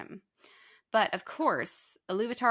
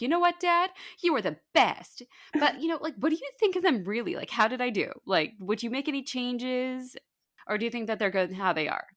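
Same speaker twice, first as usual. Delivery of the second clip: put-on higher, bright excited kid asking dad; eager son; 4 semitones higher than usual. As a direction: gush like a kid showing off work. Aule eager for approval.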